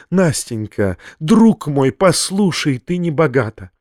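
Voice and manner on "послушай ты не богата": ordinary delivery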